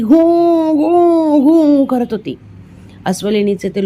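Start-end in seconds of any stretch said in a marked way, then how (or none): 0.0-1.4 high mock bear grunt; bear growl. A narrator's reading. Narrator imitates the wounded bear growling at Vijay: mock growl. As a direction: imitate the angry bear's cry. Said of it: "भयंकर ओरडत होती".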